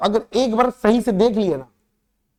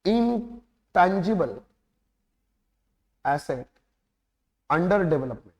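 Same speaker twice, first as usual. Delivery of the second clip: इंटेंजिबल stretched out very slowly; slow dictation; slower than usual. Shown as a demonstration. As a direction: drag each word so they can write. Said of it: "dictating heading for notes". (लिखवाते हुए बहुत धीरे)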